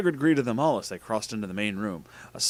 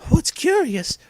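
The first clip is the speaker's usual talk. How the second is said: very high, louder question; high-voiced Jesus; 6 dB louder, slower than usual. A narrator's reading. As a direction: squeak it out, puzzled.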